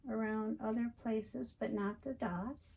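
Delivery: speaking while holding breath. Real, not acted. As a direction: tight held breath, little air. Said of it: "I'm holding my breath".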